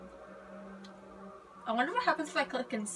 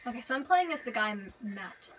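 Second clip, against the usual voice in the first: talking around a lollipop; words round a candy in the mouth; sucking a lollipop. Real, not acted. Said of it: "I'm eating a lollipop right now, so that's why".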